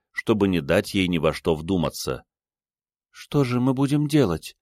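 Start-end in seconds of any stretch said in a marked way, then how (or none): 3.1-4.6 put-on higher young woman's voice, bewildered; Ada, lost. A narrator's reading. Ada, lost in her lover's flat, asks in a higher young woman's voice. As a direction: ask it lost and at a loss. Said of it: "спросила Ада".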